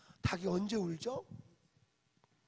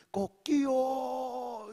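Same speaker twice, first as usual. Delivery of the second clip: long, drawn-out, higher rooster crow; 5 semitones higher, 6 dB louder, much slower than usual. Retold or imitated. Preacher crows like the dawn rooster, slow drawn-out crow. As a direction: stretch out the crow slowly like a rooster.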